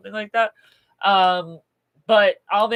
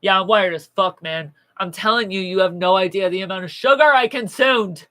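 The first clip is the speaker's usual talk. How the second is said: wired; 7 dB louder than usual. Real, not acted. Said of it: "I'm really wired right now".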